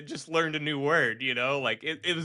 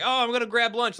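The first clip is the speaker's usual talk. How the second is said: imitated voice actor; 9 semitones higher, 3 dB louder than usual. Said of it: "And he's like".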